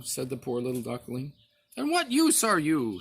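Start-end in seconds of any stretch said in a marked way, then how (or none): 1.8-3.0 a higher, sharp snap of a cat; snapping cat. A narrator's reading. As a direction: snap the question down at him. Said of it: "snapped the cat".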